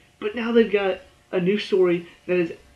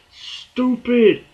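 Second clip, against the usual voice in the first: high, loud exasperated yell; mock angry shout; 7 semitones higher, 6 dB louder than usual. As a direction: yell it at the screen. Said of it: "I'm like".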